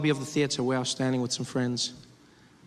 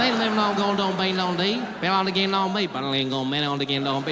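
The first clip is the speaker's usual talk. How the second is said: banjo-like drawl. Retold or imitated.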